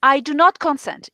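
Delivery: really firm. Shown as a demonstration. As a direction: lay down the refusal firmly. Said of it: "And really firm".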